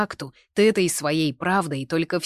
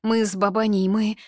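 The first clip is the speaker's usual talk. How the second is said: sobbing lightly; 5 semitones higher, 5 dB louder than usual. A narrator's reading. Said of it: "всхлипывая".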